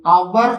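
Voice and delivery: "അവർ" with the H left silent. Shown as a demonstration. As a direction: say "അവർ" starting straight on the vowel. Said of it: "ഇവിടെ എച്ച് silent ആണ്".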